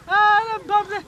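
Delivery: high pleading cries, a sob breaking in; crying for help. Acted. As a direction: beg to be saved, voice cracking into a cry. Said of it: "ज्यादा चिल्ला मत".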